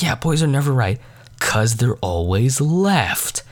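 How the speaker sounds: deliberate, stretched-out punchline; slow right down on the reveal; imitating a teacher drawing out the answer.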